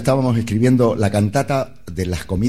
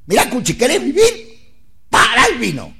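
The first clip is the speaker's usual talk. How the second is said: doctor's warning; 11 semitones higher, 3 dB louder than usual. Retold or imitated. Cuchi quotes his doctor.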